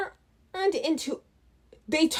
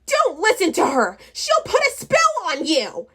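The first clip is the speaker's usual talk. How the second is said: warning goblin; 5 semitones higher than usual. Acted. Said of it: "warned a goblin with a long purple scarf".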